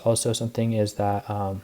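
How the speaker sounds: slightly winded, breathy pauses; out of breath. Real, not acted. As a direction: talk while catching your breath. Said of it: "I don't know why I'm out of breath".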